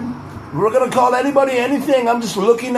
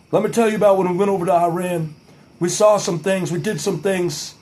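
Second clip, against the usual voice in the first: George W. Bush. Pretend. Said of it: "doesn't really sound like George W. Bush".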